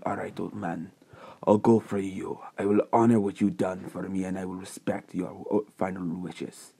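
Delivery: lightly voiced, hushed vow; solemn young hero. Deku promises to honor old man's final wishes, solemn. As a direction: keep it soft, slightly breathy and solemn.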